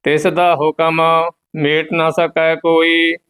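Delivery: level, monotone Gurbani chant; measured devotional reading; scripture recitation. Acted. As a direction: recite on one steady note with a held ending.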